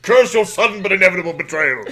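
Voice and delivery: loud, high hammed-up cursing; mock betrayed cry. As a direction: curse the traitor at full volume. Acts out Thor betrayed by Loki.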